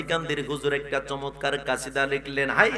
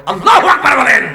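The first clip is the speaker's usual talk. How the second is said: high, loud burst, falling at the end; rallying shout; 10 semitones higher, 16 dB louder than usual. Real, not acted. Preacher tells the congregation to say takbir, rallying shout. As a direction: shout the takbir to rouse them. Calls crowd to respond.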